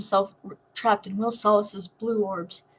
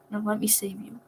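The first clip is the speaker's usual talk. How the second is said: soft, spoken close against a wrist; softly murmured; 7 dB quieter than usual. Acted. Nico softly murmuring his promise against Will's wrist. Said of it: "spoken against Will's wrist".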